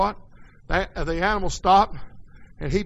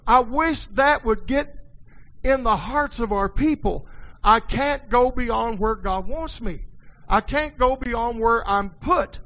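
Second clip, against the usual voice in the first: higher, slow emphatic pulpit plea; fervent preaching; 4 semitones higher, 3 dB louder than usual. Real, not acted. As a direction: press each phrase home to the congregation. Preaching with rising force.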